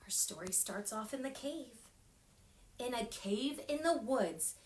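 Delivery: picture book narration; storytime reading. A narrator's reading. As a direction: read it cozy to little ones.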